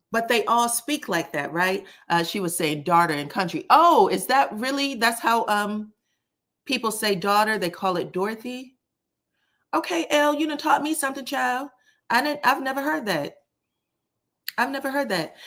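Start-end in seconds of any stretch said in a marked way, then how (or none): 3.7-15.4 surprised. Real, not acted. Surprised at the pronunciation.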